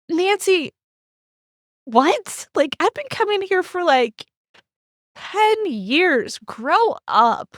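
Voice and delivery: exasperated retort. Retold or imitated. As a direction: scold her like a childish adult. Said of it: "but I was like".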